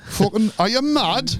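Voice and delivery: mock comic voice. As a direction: ham up a fellow comic's rant.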